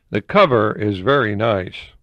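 slow, deadpan reading of the review; mock reviewer quote. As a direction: read it slowly, dry and bored.

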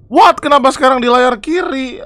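high, loud burst of disbelief; real exasperated surprise. Real, not acted. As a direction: blurt it out high, baffled by the glitch. Game jumps to the left screen.

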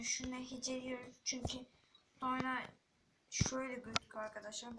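whisper. Real, not acted. Whispered explanation aside.

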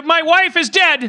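frightened husband calling 911; panicked caller. Acted. Panicked caller in murder improv.

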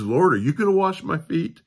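loud, high, blurted challenge; brash Peter. Retold or imitated. Preacher voicing brash Peter to the congregation, loud and high. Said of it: "always the brash one".

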